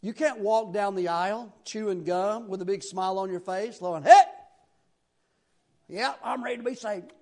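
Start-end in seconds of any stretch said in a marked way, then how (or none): 4.0-7.1 put-on casual voice after a loud hey; mock carefree churchgoer; flippant convert. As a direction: call out breezily, no humility at all. Mimics casual gum-chewing convert.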